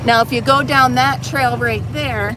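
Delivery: talking while riding over bumps; on a bumpy road. Real, not acted. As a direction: voice jolted by bumps. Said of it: "sorry for the bumps and the noise".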